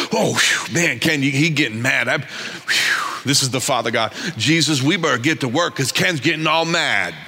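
God pretending to panic at Ken's anger; mock worried God. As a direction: fake alarm at Ken.

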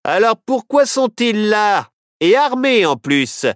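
high, slow sheriff voice; steady sheriff drawl. A narrator's reading. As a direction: draw it out like a wary sheriff. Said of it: "répondit le shérif".

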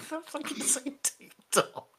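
ticking clock voice, each syllable on the beat; clock impression. Shown as a demonstration. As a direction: tick out the words like a clock. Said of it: "that's my clock impression".

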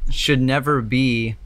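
talking around a hair in the mouth; dog hair in mouth. Real, not acted. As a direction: speak with something stuck on the tongue. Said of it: "I have a dog hair in my mouth".

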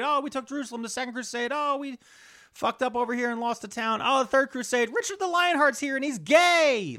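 very high-pitched mock excitement; high, giddy pretend reporting; hammed-up crusade recap. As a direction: race through the headlines in a silly high voice. Mock retelling of crusade headlines.

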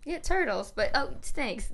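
put-on a light, high, casual kid voice; breezy little boy brushing it off; imitating the kid. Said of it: "He's like".

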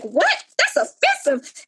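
mock outrage. Retelling her outraged reply to mother.

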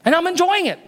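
confessing to his friend, a cheeky lift; cheeky honesty. Retold or imitated. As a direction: pop up on "enjoying" with cheek. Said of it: "I was honest with them".

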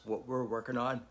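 words through a yawn; stifling a yawn mid-sentence. Real, not acted. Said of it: "Sorry, I keep yawning".

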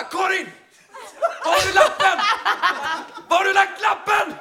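half-mock furious yelling at his girlfriend, high and loud; angry shout. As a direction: bark at her for the lost note, high and loud. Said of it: "jag blir arg på henne".

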